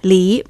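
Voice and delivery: "Li" with a rising Mandarin second tone; teacher's "Li" in rising tone. Shown as a demonstration. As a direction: confirm "Li", pitch rising like a question. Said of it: "de segundo tono".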